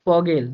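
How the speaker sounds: ফগেল with a clear ফ at the start; German Vogel with an F. Shown as a demonstration. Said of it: "ফাও কিন্তু ফ এর মতো করে উচ্চারণ হইতেছে".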